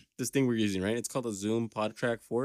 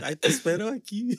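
much higher sing-song sass; sassy lilting voice; 9 semitones higher than usual. Retold or imitated. Retelling the electrician's line, higher and sassy. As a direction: slither the words sweetly. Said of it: "he's like".

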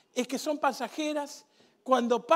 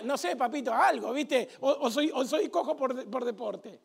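soft, offhand mock answer; cheeky sarcastic paralytic; sarcastic reply; 4 dB quieter than usual. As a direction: throw it away with a smirk. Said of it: "Yo le contestaría".

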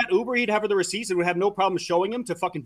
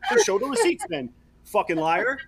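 shrill overlapping reality fight; 3 semitones higher, slower than usual. Real, not acted. Heated argument, demanding receipts.

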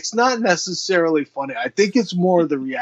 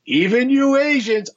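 laughing quote; 9 semitones higher than usual. Retold or imitated. Quoting the funny bumper line.

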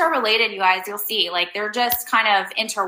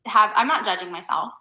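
defensive denial. Retold or imitated. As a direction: insist you're fine, a bit defensive. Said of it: "And you'd be like".

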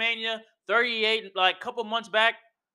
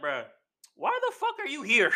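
shouting as the crowd; mock crowd shout; 3 semitones higher than usual. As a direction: yell it like the whole arena turned on him. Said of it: "everybody was like".

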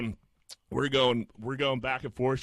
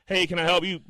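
mock-curt, higher-pitched greeting; phone rep with attitude; 5 semitones higher than usual. Phone rep answering the caller, mock attitude. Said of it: "gets on the phone with, like, attitude".

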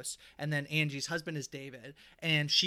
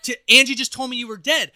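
retold upset; 8 semitones higher, 17 dB louder than usual. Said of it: "being really mad".

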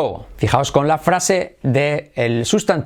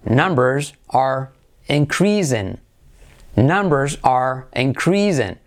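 inCREASing, slow model sentence; stress on second syllable; slower than usual. Shown as a demonstration. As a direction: lean slowly on CREAS in increasing. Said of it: "acentuamos la segunda parte". (increasing lento, con acento en la segunda sílaba)

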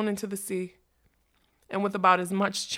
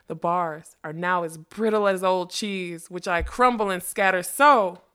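spellcasting; 5 dB louder than usual. Acted. Magician casting a spell.

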